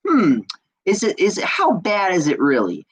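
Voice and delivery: hint of someone questioning things; mock pondering. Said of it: "look at the situation and think".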